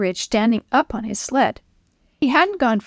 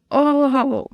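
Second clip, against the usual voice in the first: moan; 4 semitones higher than usual. Acted. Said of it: "Chris moaned".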